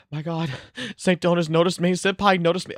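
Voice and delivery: giddy fangirl squeal, high; gushing like a starstruck fan; excited anime fan. Pretend. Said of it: "talk to him, and be like".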